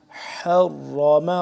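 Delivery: drawn-out حرم with a breath-filled ح; mid-throat haa. Shown as a demonstration. Teacher shows where haa comes from, slow throaty onset. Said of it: "ح، حلق کے درمیانی حصے سے".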